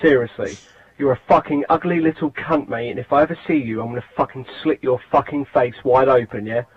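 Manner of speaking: hostile, sneering abuse; angry rant. Real, not acted. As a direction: spit insults at him. Abusive voicemail played on show.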